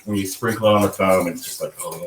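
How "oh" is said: low, soft savoring "oh"; blissful sigh. Acted. Describing vanilla sugar on cappuccino foam, blissful sigh. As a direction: let out a hushed swoon of pleasure.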